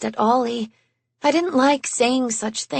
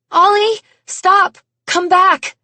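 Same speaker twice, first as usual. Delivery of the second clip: higher, louder call over the shoulder; urgent shout after her brother; 8 semitones higher, 7 dB louder than usual. A narrator's reading. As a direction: shout to the running boy to stop. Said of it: "I called out over my shoulder".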